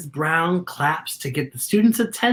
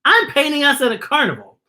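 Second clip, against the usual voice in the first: put-on higher, louder, eager kid voice rising on the sky; excited exclaiming; 8 semitones higher, 4 dB louder than usual. A narrator's reading. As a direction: gush about the Ferris wheel. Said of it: "Peyton exclaims".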